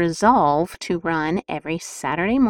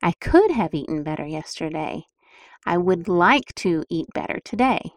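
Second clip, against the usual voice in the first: kinder self-talk. Shown as a demonstration. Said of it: "See how much better that sounds?".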